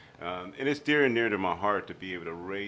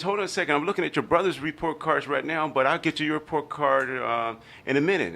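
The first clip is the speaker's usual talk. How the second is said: higher brushing-off mother voice; busy mom; 8 semitones higher, 7 dB louder than usual. Retold or imitated. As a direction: voice the distracted mom. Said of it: "And she says".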